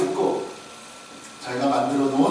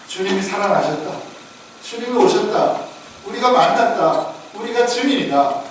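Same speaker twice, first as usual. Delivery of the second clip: acting out disciples breaking big news to a friend; excited announcement; 2 semitones higher, 3 dB louder than usual. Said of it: "여러분이라면 도마에게 무슨 말씀을 하셨겠습니까".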